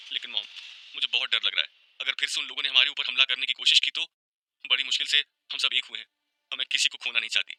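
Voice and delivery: fearful, near-crying protest; tearful voice. A narrator's reading. Tanya afraid of losing her family, tearful. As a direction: plead as if tears are coming. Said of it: "रुआंसी आवाज में कहा".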